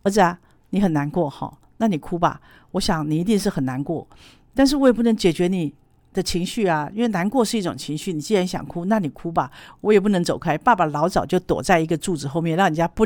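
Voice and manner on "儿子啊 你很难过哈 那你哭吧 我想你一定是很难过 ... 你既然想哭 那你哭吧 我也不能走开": gentle to son. Shown as a demonstration. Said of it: "你要跟他讲".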